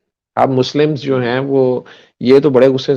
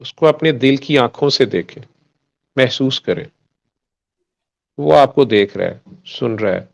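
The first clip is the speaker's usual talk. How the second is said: guided meditation. Shown as a demonstration. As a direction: lead them gently inward, unhurried. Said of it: "दुआ जो आप कह रहे थे मैं करवा दूं".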